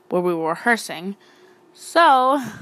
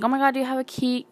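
panicked plea; 5 semitones higher, faster than usual. Retold or imitated. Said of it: "So I'm, like, freaking out".

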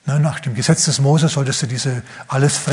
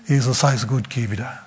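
cool quiet dismissal; 3 semitones lower, 5 dB quieter than usual. Acted. Townspeople dismiss Jesus again.

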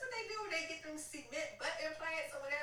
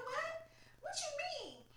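shocked what; slower than usual. Retold or imitated. Shocked by locked-out nurse.

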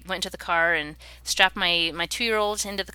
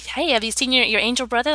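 eager higher asking, a bit pushy; pestering mom; 6 semitones higher, 3 dB louder than usual. Retold or imitated. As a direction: nudge the kids, hoping for a yes. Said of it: "I'm like".

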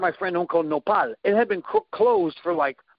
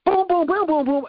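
gunshot echo noises; 10 semitones higher than usual. Retold or imitated. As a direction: mimic the shot ringing round the room.

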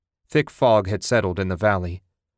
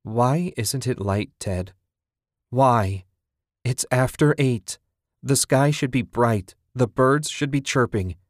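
frightened pleading; 4 semitones higher than usual. Acted. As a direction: beg him to explain, rising panic. Frightened wife pleads with husband.

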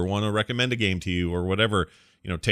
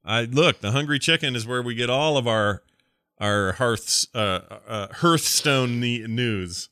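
lightly done, bad cartoon-character impression; a hint of a badly imitated cartoon guy; Carl from Aqua Teen Hunger Force. Host mimicking a caller to plug Hungry Chicken, bad impression. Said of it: "Sounds like a really bad Carl impression".

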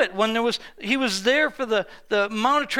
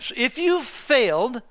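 ordinary talk, nothing marked

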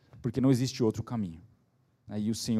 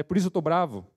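higher-pitched retold vexation; acted self-anger; 4 semitones higher than usual. Father explaining why he is cross, mildly angry. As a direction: wrap up a mock self-scolding. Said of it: "ele fica bravo com ele".

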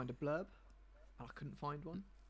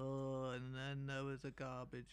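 bored. Acted. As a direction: drone it out like it's dull. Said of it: "make it sound as boring as".

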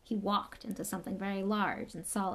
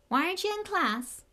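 Hagrid voice; 11 semitones higher, 5 dB louder than usual. Acted.

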